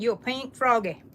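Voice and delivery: Southern Texas twang on the name; Texas accent. Shown as a demonstration. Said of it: "with that southern accent, that Texas accent".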